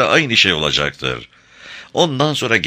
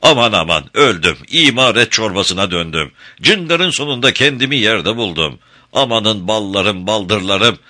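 wailing complaint; 3 semitones higher than usual. Acted. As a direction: make a fuss like beaten Karagöz. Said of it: "yaygarayı yine kendisi koparır".

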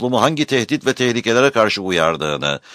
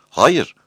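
sharp rising Hayır, high and louder; emphatic no; 7 semitones higher, 5 dB louder than usual. Acted. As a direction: snap out Hayır with a rise. Answers own question emphatically.

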